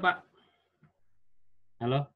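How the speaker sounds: ordinary talk, nothing marked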